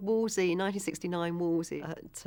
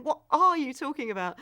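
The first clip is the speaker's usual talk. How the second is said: raised, exasperated question; annoyed retold policeman; 7 semitones higher, 4 dB louder than usual. First policeman to his star-struck colleague, really annoyed. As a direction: imitate a colleague losing patience, pitched up. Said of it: "this first policeman was getting really annoyed with him".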